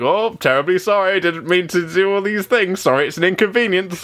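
lightly voiced polite British captain; a hint of fussy, apologetic British politeness. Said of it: "and he's here like".

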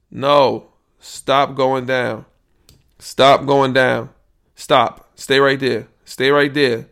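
loud, slow commands shouted at the machine; yelling at the meter. Real, not acted. Podcaster shouting at his recording levels, loud. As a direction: bark orders at the falling volume.

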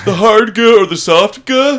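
loud, high disbelieving question; incredulous, almost yelling. Real, not acted. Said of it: "That's not a thing".

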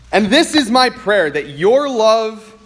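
measured, unhurried Bible reading; scripture reading. Acted. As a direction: read the verses with reverent care. Pastor reads scripture passage aloud.

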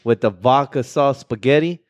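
lightly put-on Italian-American menu pitch; hint of a hood Italian accent. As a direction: sell the dish in a mock Italian accent. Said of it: "you just sound like a hood It".

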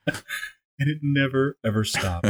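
drawn out, never stretched; milk the dread slowly; hammed-up spooky narrator; slow mock-ominous. Drawn-out dramatic line.

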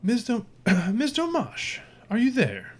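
muffled. Acted. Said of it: "a somewhat muffled".

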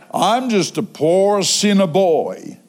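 slow mimicry of a self-pitying man; self-deprecating churchgoer. Preacher mimicking the man's stock reply, self-deprecating. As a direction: drag out the mock humble reply.

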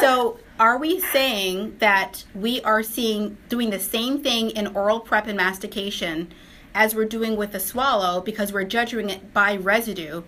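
slow down and spell it out. Real, not acted. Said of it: "I'm gonna say it one more time".

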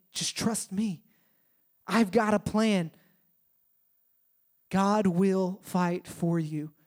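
a hint of a tender God, slowly; gentle reassurance.

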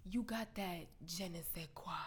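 breathy whispered line; whispered seduction. Retold or imitated. Man whispering compliments to her outside the show, hushed. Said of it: "He's like".

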